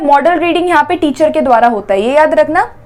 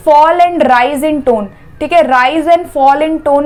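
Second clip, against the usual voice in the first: slow definition; much slower than usual. Shown as a demonstration. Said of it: "intonation का मतलब क्या होता है?".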